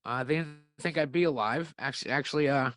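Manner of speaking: talking while chewing gum; words around a wad of gum. Real, not acted. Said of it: "I'm sorry I'm chewing gum".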